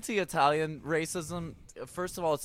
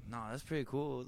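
casual shrug; 9 dB quieter than usual. Retold or imitated. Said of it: "communities are like".

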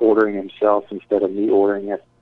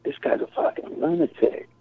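whispered aside; 7 semitones higher, 5 dB quieter than usual. Retold or imitated. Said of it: "looking at each other like".

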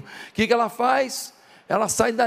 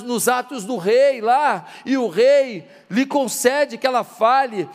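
raised, driving sermon voice in measured phrases; impassioned preaching. Real, not acted. Preacher urges congregation to take the first step, impassioned preaching. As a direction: hammer each clause home to the congregation.

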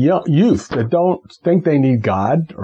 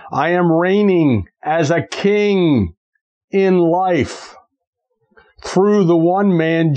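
faith declaration. Acted.

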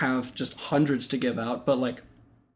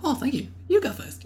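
much higher, softer, overly polite little cartoon critter; polite chipmunk voice; 11 semitones higher, 5 dB quieter than usual. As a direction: play a sweet chipmunk deferring to its friend. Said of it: "two chipmunks that are, like, very polite".

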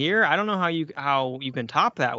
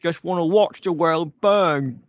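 a bad British butler impression, grave and ominous; mock-solemn movie-quote delivery in a put-on voice; fake Michael Caine line; 3 semitones higher, 4 dB louder than usual. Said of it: "that wasn't any better than the, uh, fake Michael Caine".

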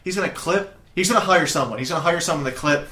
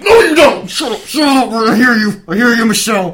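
much higher, louder hammed-up yelling; mock angry shout; 8 semitones higher, 11 dB louder than usual. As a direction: shush the chattering models. Acting out shouting at the models.

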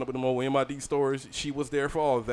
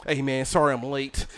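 imitated white American accent, in an even tone. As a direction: mimic his white-boy accent, lightly. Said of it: "The white boy".

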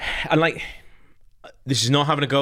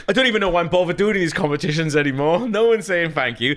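mock grumpy Geordie; 7 semitones higher than usual. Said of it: "he breaks character and he's like".

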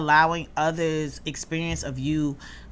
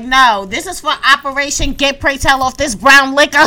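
imitating Elektra; 8 semitones higher, 11 dB louder than usual. Voicing Elektra drinking to spite.

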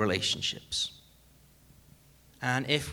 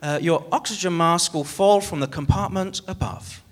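safety announcement; 3 semitones higher than usual. Retold or imitated. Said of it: "But they say".

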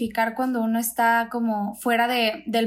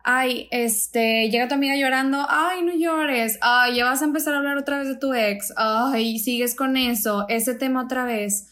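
mock exasperated brush-off. To a crying friend about her ex, mock exasperated brush-off. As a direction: imitate a friend rolling her eyes at more tears. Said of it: "es tan simple como un pequeño".

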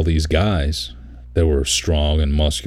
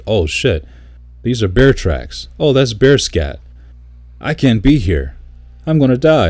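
mock panic; 6 semitones higher than usual. Retelling the bragging vet spotting bear scat, mock panicked. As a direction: voice climbing higher and higher in fake panic. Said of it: "he's like".

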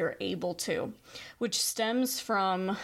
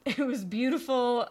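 real laugh, louder and a little higher; 4 semitones higher, 4 dB louder than usual. Real, not acted. Host delighted by the kindergarten boy's success, laughing. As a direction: laugh through "beautiful" with delight.

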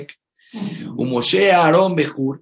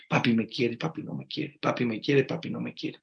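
put-on child's fear; 2 semitones lower, 7 dB quieter than usual. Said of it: "El miedo de un niño infantil".

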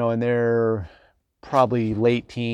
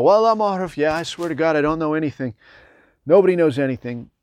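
high, insistent mock plea; pleading farmer; 4 semitones higher than usual. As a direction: swear innocence to the interrogator. Farmer protesting under questioning.

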